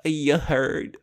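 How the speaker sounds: lightly sassy "you heard?"; mock-sassy catchphrase. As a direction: put a touch of sass on it, imitating sassy people. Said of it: "the sassy people that say".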